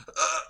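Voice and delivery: short high strangled "uh"; mock heart-stopping gasp; choked shock noise. Imitates man's shock before collapsing.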